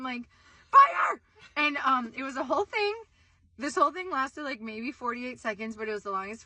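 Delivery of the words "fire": high, loud cry of alarm; re-enacted screaming. Retelling her answer to her nephew, re-enacted screaming. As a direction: scream a warning, acting out panic. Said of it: "And I'm still screaming".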